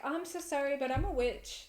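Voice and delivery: high, sugary fake apology; sing-song sorry to the visitor; mock polite witch. Telling a pamphlet giver she is a witch, high and sweet. Imagined reply at the door.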